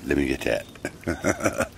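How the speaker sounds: low, slow pet voice; monkey voice. Pretend. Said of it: "Boo's like".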